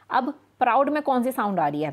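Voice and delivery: ordinary talk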